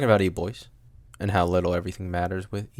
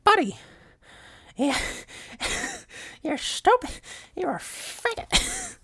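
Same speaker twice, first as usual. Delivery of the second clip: very high squeaky taunting voice, laughing in the middle; mock sneering voice; slower than usual. Host mocking the E-boy in a squeaky taunting voice. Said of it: "It's like".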